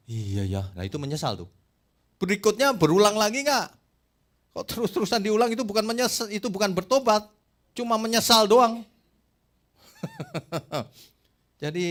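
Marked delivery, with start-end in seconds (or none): 2.2-8.9 louder, higher, fast preaching; preaching at full force; emphatic rebuke. Real, not acted. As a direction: scold the congregation forcefully. Preacher rebukes repeat sinners.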